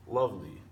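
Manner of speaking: "lovely" with stressed "love" and falling, light "ly"; stress on first syllable. Shown as a demonstration. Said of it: "The underlined part is the stressed part".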